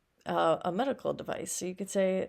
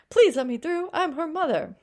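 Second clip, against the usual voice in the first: much higher and louder, urgent mother; pushing through, loud; 9 semitones higher, 6 dB louder than usual. A narrator's reading. Mother forcing her way to her daughter, loud and high. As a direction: call out over the crowd.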